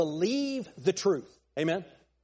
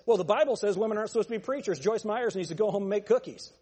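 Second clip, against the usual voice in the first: blunt; faster than usual. Acted. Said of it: "what you ought to say is".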